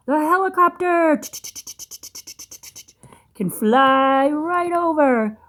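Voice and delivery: put-on slow awed whisper to a child; hushed excitement. Building suspense for child.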